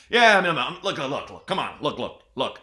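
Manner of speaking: hint of a blowhard cutting in; Bill O'Reilly. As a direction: lightly mimic a man talking over everyone. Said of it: "how he'd be like".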